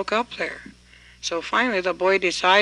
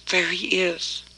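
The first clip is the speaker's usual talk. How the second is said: whisper; slower than usual. Acted. Boy hiding, sees stone coat coming.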